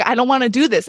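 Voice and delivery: mild mock refusal; retold protest. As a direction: imitate someone balking at a request. Husband's first retold refusal.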